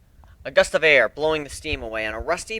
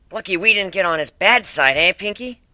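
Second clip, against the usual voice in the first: nervous Dash; 7 semitones higher, 5 dB louder than usual. Acted. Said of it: "Dash said nervously".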